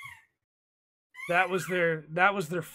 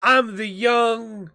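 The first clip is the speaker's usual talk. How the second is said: put-on young hip stereotype; 3 semitones higher, 5 dB louder than usual. Mocking a game presenter's persona, hammed-up cool kid. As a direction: stretch it out like a try-hard youngster. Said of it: "you know the stereotype of".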